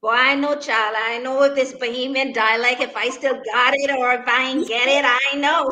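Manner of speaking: put-on playful Bahamian accent, rising to a laughing shout. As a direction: Bahamian dialect, loud and teasing. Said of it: "Go again for me".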